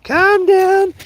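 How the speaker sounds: very high sing-song calm down, building; mocking calm down. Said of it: "I was like".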